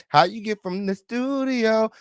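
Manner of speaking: high, stretched-out disbelief; incredulous. Real, not acted. Host questions how they left the studio, incredulous. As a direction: hold the repeated word long and high, almost sung.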